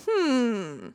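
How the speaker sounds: long falling "hmm"; drawn-out hum. Real, not acted. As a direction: hum it out, sliding down. Reacting to Dane letting her go.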